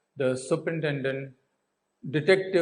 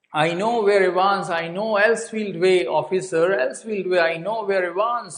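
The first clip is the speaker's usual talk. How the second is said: urgent insistence; 4 semitones higher, 3 dB louder than usual. Retold or imitated. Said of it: "he cut through and he said".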